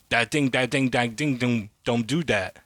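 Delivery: light mock Gates voice, scolding; lightly imitating Bill Gates. Retelling Eddie Bravo's Gates bit, lightly mocking. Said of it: "Eddie Bravo making fun of motherfucking Bill Gates".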